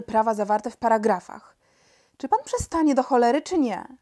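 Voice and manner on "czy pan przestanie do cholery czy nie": higher, louder angry demand; exasperated. Acted. King fed up with the minister's paragraphs, exasperated demand. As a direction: demand that he stop, out of patience.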